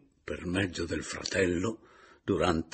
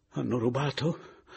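higher, stricken question; voice not her own; 5 semitones higher than usual. Acted. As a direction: ask it as if about to faint. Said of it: "domandò con una voce che". (voce alterata dallo sgomento)

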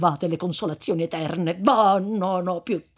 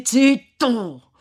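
sharp interruption; 7 semitones higher, 9 dB louder than usual. Acted. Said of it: "interruppe il frate".

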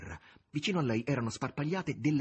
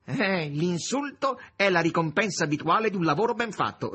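loud, raised scornful retort; 6 semitones higher, 8 dB louder than usual. A narrator's reading. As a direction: answer the insult with loud disdain. Azazello retorts in acted dialogue.

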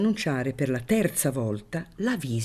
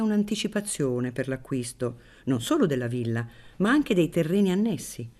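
unctuous priest voice; 5 semitones higher than usual. Acted. Priest insinuates.

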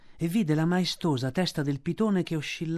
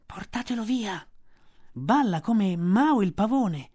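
cobras' complaint; 5 semitones higher than usual. A narrator's reading. The cobras complain about Mowgli, annoyed. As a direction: grumble like annoyed snakes. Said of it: "dissero i cobra".

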